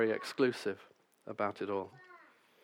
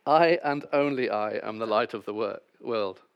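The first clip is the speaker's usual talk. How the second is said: louder, preacherly take with a hint of the old Doctor; a lightly voiced Welsh preacher, louder; Lloyd-Jones impression; 7 dB louder than usual. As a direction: proclaim it like Lloyd-Jones in the pulpit. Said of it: "I've practiced that more than I've practiced this".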